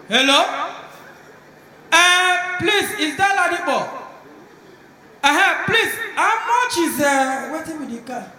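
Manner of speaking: can't believe the price; shocked caller. Retold or imitated. Rich man phoning, shocked at price.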